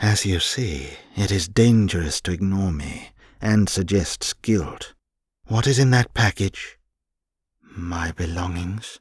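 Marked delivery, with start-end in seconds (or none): 7.6-9.0 muttered, much quieter. The girl answers Alienor's demand, muttering. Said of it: "the girl muttered".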